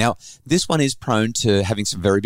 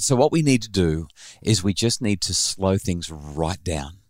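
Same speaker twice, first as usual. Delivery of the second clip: calm reassurance; 3 semitones lower than usual. Retold or imitated. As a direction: ease her down gently. Calming daughter with box breathing.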